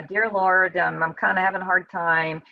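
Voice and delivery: a mild, hesitant polite prayer; nicer polite prayer. Retold or imitated. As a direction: soften it, say it nicely. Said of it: "say it nicer".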